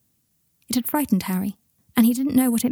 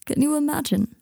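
dreamily; 7 semitones higher than usual. A narrator's reading.

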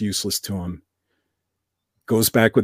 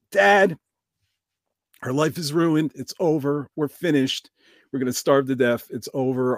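panicked, pleading son voice, higher; desperate son; 3 semitones higher than usual. Retold or imitated. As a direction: despair spilling out to dad. Son panics over the lost horse.

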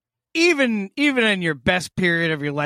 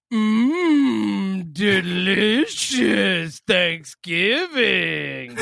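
slow savoring mmm delicious; drawn-out mock foodie relish; tasty yum mmm; 3 semitones higher, much slower than usual. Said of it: "And the voice memo was".

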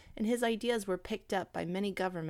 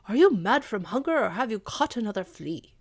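mocking dog; 3 semitones higher, 8 dB louder than usual. Dog Blackfoot mocks the hungry cat, loud jeer. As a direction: taunt the cat as a gruff dog.

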